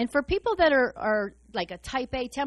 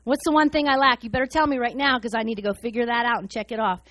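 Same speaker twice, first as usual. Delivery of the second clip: louder goal-driven demand; eager; 5 dB louder than usual. Retold or imitated. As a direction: push to know the answer now. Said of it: "I'd be like".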